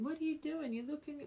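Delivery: high impressed voice; admiring stranger. Retold or imitated. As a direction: gush like an amazed stranger. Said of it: "People would be saying".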